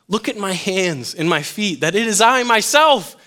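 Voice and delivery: building, insistent quote of Jesus; emphatic scripture reading. Acted. Jesus proving himself to disciples, read emphatically.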